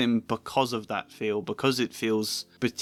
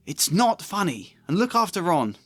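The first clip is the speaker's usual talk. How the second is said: scolding mum; 7 semitones higher than usual. Acted. Mum scolding the twins in the edited scene, high and stern. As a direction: tell the twins off firmly.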